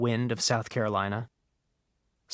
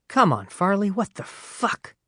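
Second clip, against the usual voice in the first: higher, slow, fed-up complaint; exasperated; 7 semitones higher than usual. Real, not acted. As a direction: grumble at the absent Farley. Exasperated at Farley's advice.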